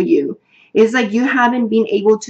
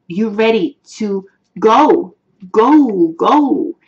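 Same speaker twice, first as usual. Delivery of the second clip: rising push on each go, the last ones louder; urging on; 5 dB louder, slower than usual. Acted. Tarot reader urging her singles forward, go louder each time. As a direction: spur them forward, building on every go.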